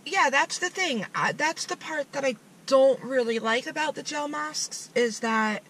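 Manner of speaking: talking through a gel mask; wearing a face sheet mask. Real, not acted. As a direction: face stiff under mask. Seen 1: Both people wear shiny gel masks, pressing them on; unsure who speaks.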